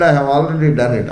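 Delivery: hurried impatient reply. Acted. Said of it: "He said".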